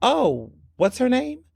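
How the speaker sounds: calm and cool. Retold or imitated. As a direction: play it cool and innocent. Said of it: "playing it calm and cool".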